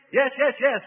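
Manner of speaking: high, loud desperate cry of the demon; frantic demon crying yes. A narrator's reading. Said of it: "cried the demon".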